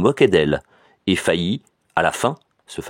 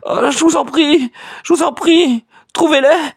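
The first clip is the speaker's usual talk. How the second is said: much higher and louder, desperate plea; pained cry; 4 dB louder than usual. A narrator's reading. Cousin begs her cousin for the money, desperate and much higher. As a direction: beg as if in pain. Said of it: "une sorte de cri de souffrance".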